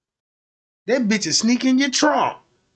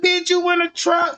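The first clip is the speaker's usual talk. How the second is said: higher, startled; shocked question; 8 semitones higher than usual. Retold or imitated. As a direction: blurt it out in disbelief. Shocked finding her in trunk.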